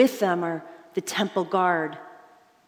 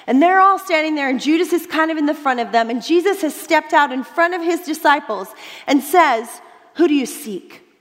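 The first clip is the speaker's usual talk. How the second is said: rising excitement; 5 semitones higher, 5 dB louder than usual. Acted. Preacher builds scene excitedly.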